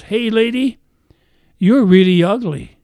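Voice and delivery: squawky high parrot, loud on ugly. Acted. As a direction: call out like a rude pet shop parrot. Parrot insults her again.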